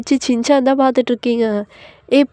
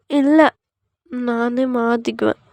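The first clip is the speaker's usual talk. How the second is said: put-on shy young wife; 3 semitones higher than usual. Wife refusing husband's help, shyly protesting. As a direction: protest in a small girlish voice.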